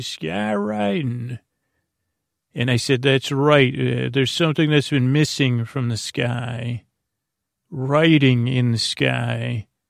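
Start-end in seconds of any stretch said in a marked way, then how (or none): 0.0-1.4 gruff, rough, pitched-up trucker woman voice. Recounting what a woman was heard saying, in a trucker-like woman's voice. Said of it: "like this woman in a very truckery voice say".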